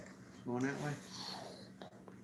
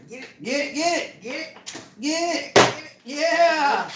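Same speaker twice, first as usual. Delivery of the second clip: yelling from the sidelines; 8 semitones higher than usual. Real, not acted. Cheering grandson breaking plastic.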